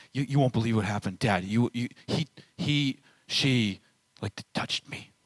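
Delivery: lightly voiced, fast, tattling child; a hint of a kid running to tell Dad. Child tattling on a sibling to Dad, lightly imitated and rushed. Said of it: "endless amount of tattling".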